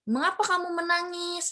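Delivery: high start falling to the end; high "Mengapa", dropping on "menangis"; question intonation. Shown as a demonstration. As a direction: ask with a falling tune. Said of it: "intonasi yang lebih seperti menurun".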